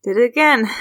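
breathless after running; out of breath. Acted. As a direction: pant between the words. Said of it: "she's catching her breath".

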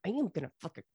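high, strained vow of revenge; hammed-up super-mad threat, punching the last word; mock fury. Cheated brother vowing revenge, mock-furious threat. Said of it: "then Esau's super mad".

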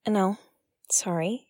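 normal talking voice

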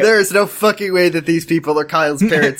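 tough soldier voice, lightly done; a hint of a hardened soldier; Solid Snake voice. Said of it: "it's Solid Snake voice".

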